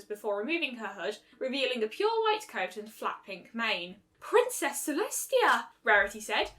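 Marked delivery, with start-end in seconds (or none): 4.2-5.7 formal announcement. Acted. Rarity announcing royalty.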